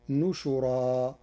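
"نشرا" slowly as nushura; u on both first syllables of "نشرا", ending long; damma on nun and shin. Shown as a demonstration. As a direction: draw out "نشرا", nu-shu-raa. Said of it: "بالنون والشين المضمومتين".

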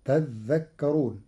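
تذكرون with a doubled ذ, taththakkarun; doubled dhaal. Shown as a demonstration. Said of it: "بتشديد الذال". (تشديد الذال)

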